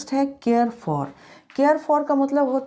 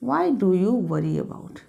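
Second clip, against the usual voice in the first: slow dictation; much slower than usual. Shown as a demonstration.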